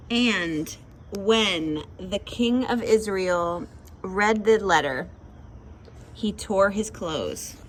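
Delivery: slow, measured verse reading; scripture reading. Acted. Reading the Bible verse aloud for August, slow and deliberate. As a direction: read it out slowly, phrase by phrase.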